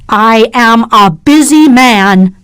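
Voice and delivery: slow, lightly hardened male voice; hard, unnatural voice. A narrator's reading. Morris brushing Catherine off, hard and cold. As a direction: say it coldly, forcing it. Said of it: "His voice was so hard and unnatural".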